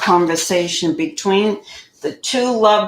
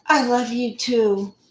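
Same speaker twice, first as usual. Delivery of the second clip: higher-pitched mock little girl; six-year-old voice; 4 semitones higher than usual. Answering his love line, mock six-year-old voice. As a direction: put on a lightly childlike, higher voice. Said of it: "in my six-year-old voice".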